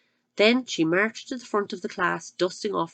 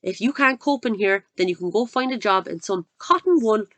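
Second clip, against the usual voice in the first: contemptuous dismissal; 3 semitones higher, 5 dB louder than usual. Acted. Headmistress dismissing teacher.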